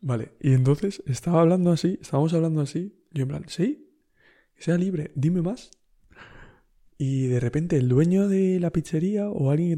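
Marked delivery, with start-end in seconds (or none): 3.5-5.7 mock eager agreement. Mocking agreement.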